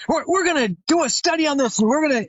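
fired-up eccentric mentor. Retold or imitated. Chiropractor retelling his hero's excited study plan, fast and high. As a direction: rush the words like an eager old mentor. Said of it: "he is eccentric and very just fired up and passionate".

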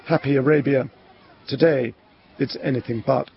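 measured reporter narration; news report sign-off. Acted. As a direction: close the report in deliberate, spaced phrases.

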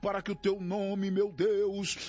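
impassioned, pleading prayer in rolling phrases; fervent prayer. Real, not acted. Pastor interceding with God for despairing, grieving, oppressed people, fervent prayer. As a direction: cry out to God, drawing out key words.

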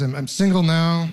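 ordinary talk, nothing marked

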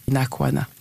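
Inakwana said as a Hausa good morning, ee-nah-KWAH-nah; Inakwana, a Hausa good morning with an open nah and a light stress on KWAH; Hausa greeting. Shown as a demonstration. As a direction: say Inakwana the way her parents say it in Hausa. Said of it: "the way we say good morning is".

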